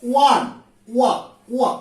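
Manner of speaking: ওয়ান, then its opening ওয়া alone; sounding out ওয়ান. Shown as a demonstration. Teacher shows how one begins, sounding out ওয়ান as ওয়া. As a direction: say ওয়ান, then isolate ওয়া with pauses between. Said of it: "উচ্চারণটা হচ্ছে ওয়া".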